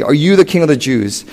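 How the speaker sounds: a touch of condescension; mildly patronizing question; condescending. Acted. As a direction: talk down to the prisoner. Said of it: "Very just condescendingly".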